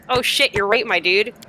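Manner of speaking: lightly voiced convert's amazement; casual, jokey dawning agreement; mock sudden realization. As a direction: play an instant change of heart. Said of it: "and she's like".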